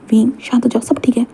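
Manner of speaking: whispered, soothing reassurance; hushed calming. Acted. Wang Ji calms his crying Wing, whispered comfort. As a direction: hush him gently.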